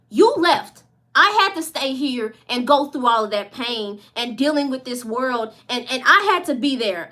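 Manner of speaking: put-on the unhealed self confronting the inner child in anger; accusing outburst. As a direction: throw the blame back, rising with hurt.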